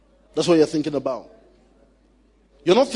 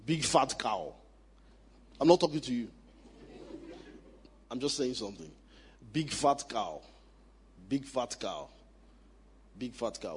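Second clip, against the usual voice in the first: quiet repetition; 8 semitones lower, 14 dB quieter than usual. Shown as a demonstration. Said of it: "let me say it here again".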